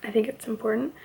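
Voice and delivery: talking with a retainer in. Real, not acted. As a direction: speak around a dental retainer. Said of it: "Sorry, I have my retainer in".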